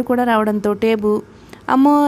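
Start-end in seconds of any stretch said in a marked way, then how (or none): 1.7-2.1 a loud, high wail of pain; sudden loud child's howl; crying out in pain. Acted. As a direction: cry out like a hurt boy who hit his head. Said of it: "అని ఊరికేక వేసి ఏడవటం".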